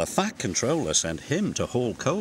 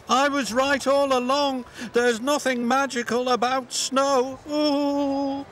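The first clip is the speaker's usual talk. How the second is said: much higher, smug cartoon voice; smug character voice; 14 semitones higher than usual. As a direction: crow that you were right.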